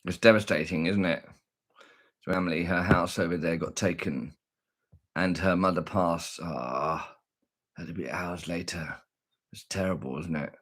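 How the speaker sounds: low, subdued and sorrowful. Real, not acted. Talking of neighbour's losses in war.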